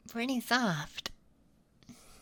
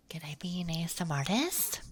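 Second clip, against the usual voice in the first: whispering; much faster than usual. Acted. ASMR whisper.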